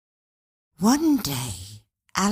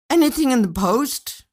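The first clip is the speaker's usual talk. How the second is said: called loudly through a back door, higher; husband calling from outside; 10 semitones higher, 7 dB louder than usual. A narrator's reading. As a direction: shout it across the garden to her. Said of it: "called Bert through the back door".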